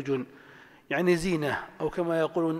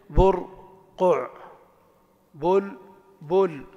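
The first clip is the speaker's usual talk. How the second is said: برقع and بلبل each split in two, with a long pause between syllables; 4 dB louder, much slower than usual. Shown as a demonstration. Teacher showing word patterns to students, syllable by syllable. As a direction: slowly break برقع and بلبل into two separate beats. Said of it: "ومعرفة المقاطع الكلمات".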